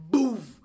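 punchy "boof" sound effect; a loud, sudden boof; spoken boom noise. Shown as a demonstration. Vlogger picturing next year blowing up, punchy boom noise. Imitated burst in a wish.

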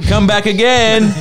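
high, slow, laughing call; cheery send-off. Retold or imitated. Imitating a local waving off visitors, high laughing send-off. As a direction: sing out a mock farewell.

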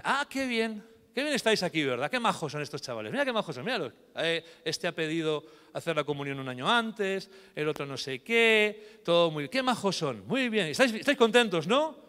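sugary, mocking evil fairy; fake-sweet, rising into menace; wicked fairy. Uninvited fairy mocking the families at the baptism, sugary sneer.

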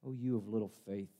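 soft, quiet gentle rebuke; a tender but firm correction; loving and stern. Acted. Jesus rebuking Peter after pulling him up, soft and stern. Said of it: "Lovingly and sternly says".

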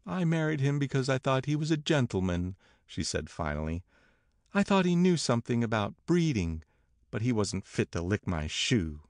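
lightly voiced wife, high and scornful; disdainful Myrtle. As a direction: explain the marriage from a high, aggrieved perch. Voices Myrtle justifying her marriage.

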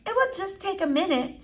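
coaxing, high-pitched reassurance; lightly smooth things over; a touch of soothing persuasion. Acted. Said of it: "in a low, soothing voice".

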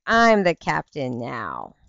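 slow, dramatic quote of the line; movie quote. Retold or imitated. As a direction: deliver the movie line slowly and gravely. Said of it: "It's like".

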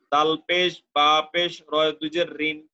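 teacher's measured letter-by-letter sounding out; spelling drill. Shown as a demonstration. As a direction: sound out দাল পেশ, বা পেশ part by part. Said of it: "উচ্চারণ, আবার".

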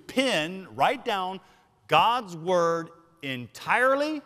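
slow, deliberate preacher's cadence; emphatic preaching. Real, not acted. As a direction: weigh each phrase, pausing between them.

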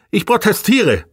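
high-pitched indignant outburst; agitated cry. A narrator's reading. Fiedler objects to the container search, agitated high cry. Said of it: "schrie Fiedler aufgebracht".

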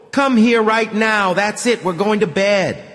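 mother hauling her son away; sharp mother's order. A narrator's reading.

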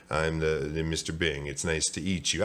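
halting, flustered introduction; hesitant, slightly low tongue-tied man; stammering. Acted. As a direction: stumble through it nervously. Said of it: "Mister Bing stammered".

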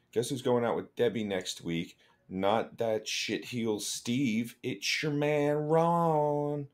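put-on a light southern accent reading the note; lightly voicing Ron's letter in a mild southern accent. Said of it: "I'm giving Ron a southern accent".

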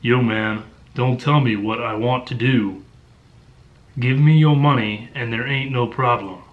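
mock audiobook American character voice; badly faked menacing street youth; monotone American thug. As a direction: imitate a narrator's bad American accent. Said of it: "Just a simple monotone that is just atrocious".

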